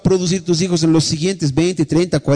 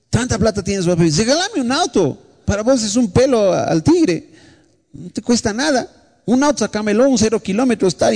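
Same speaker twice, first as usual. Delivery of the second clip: begging daughter; 5 semitones higher than usual. Retold or imitated. Pastor voices begging teenage daughter.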